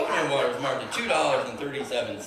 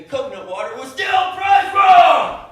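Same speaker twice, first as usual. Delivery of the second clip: high, loud exclamation of disbelief; outraged exclamation; 14 semitones higher, 13 dB louder, slower than usual. Real, not acted. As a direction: blurt it out loudly in disbelief. Outraged discovery in the story.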